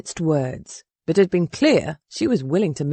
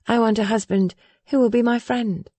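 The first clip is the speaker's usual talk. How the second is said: put-on lightly raised voice, earnest young lady; earnest and stubborn young woman; young woman, determined; 4 semitones higher than usual. Willa speaks again.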